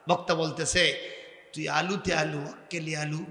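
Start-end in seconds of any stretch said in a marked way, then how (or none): 1.5-3.2 Bogura dialect. Retold or imitated. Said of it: "আমরা এতই কঠিন ভাষায় কথা বলি".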